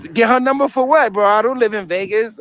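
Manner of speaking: high-pitched protest to the chat; incredulous objection. Real, not acted. Streamer answering viewers about getting her number, incredulous.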